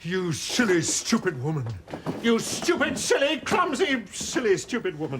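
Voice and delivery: fed up, telling her off; exasperated scolding. Real, not acted. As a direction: berate the clumsy helper. Berating his clumsy assistant.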